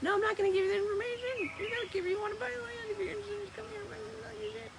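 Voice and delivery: very high put-on squeaky voice, fading; mock refusal.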